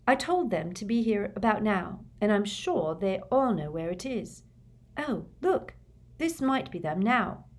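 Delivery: a hint of an eager schoolgirl; Hermione voice. A narrator's reading. Hermione's voice in audiobook.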